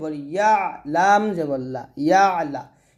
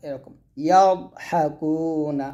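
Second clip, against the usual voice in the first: spelling drill. Shown as a demonstration. Teacher spelling Arabic syllables aloud for students, sing-song drill. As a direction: chant each letter and vowel mark for the class.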